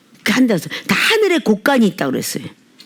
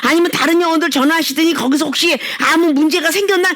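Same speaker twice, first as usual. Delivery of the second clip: higher, sweet concerned asking; gentle asking; 7 semitones higher than usual. Retold or imitated. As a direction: coax it like a caring church member. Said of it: "이렇게 묻는 일은 없다고".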